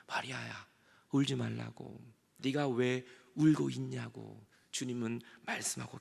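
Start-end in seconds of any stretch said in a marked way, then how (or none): 0.1-4.4 low, softer, a touch of tenderness; lightly acted Jesus, lowered and unhurried; lightly voiced Jesus. Jesus speaking to weeping Mary, lightly voiced tenderness. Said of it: "울고 있는 우리에게 예수님은 말합니다".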